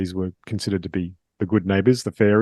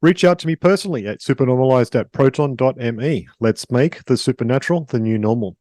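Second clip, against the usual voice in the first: scripted host introduction, evenly flowing; polished podcast announcer read; podcast intro read. Acted. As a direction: read it out like a show opener.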